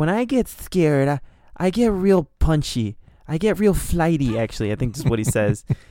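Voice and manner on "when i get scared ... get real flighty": high-pitched, slow, halting voice with hesitant pauses. Retelling a scene from Mike Tyson Mysteries: Mike Tyson impression. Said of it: "it reminds me of a Mike Tyson Mysteries episode where he's like".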